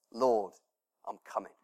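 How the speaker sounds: hushed and low, answering the Lord; quietly surrender, voice dropping away; soft reply to God. Pretend. Heart answers God softly.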